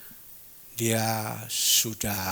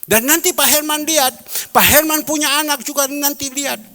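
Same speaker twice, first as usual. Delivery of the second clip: imitated tearful friend; 12 semitones higher, 9 dB louder than usual. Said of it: "friend keeps crying".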